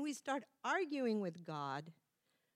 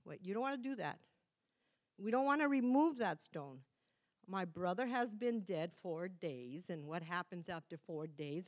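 outgoing Martha; 2 semitones lower than usual. Acted. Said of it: "she's the outgoing one".

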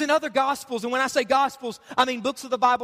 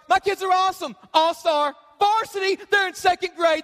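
bragging parent; 3 semitones higher than usual. Retold or imitated. Pastor mocking parents who brag about their kids. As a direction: gush like a proud parent showing off.

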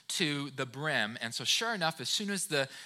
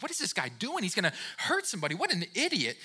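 enraged; 3 semitones higher, faster than usual. Retold or imitated. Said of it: "enraged by that".

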